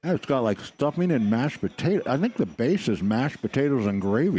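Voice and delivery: talking while chewing; words round a bite of food; mouth full. Real, not acted. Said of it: "You're not supposed to talk with your mouth full".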